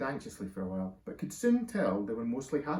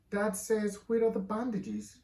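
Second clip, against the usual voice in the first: yelled; 8 semitones higher, slower than usual. A narrator's reading. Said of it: "he yelled".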